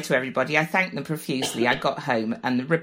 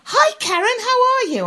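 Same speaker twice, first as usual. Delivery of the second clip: mock cheerful; 7 dB louder than usual. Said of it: "he looks at me and goes".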